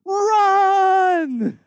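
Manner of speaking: high, loud command to flee; shouted warning in the cave; urgent shout. Retold or imitated. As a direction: bark the one word to get everyone running. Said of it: "says one word".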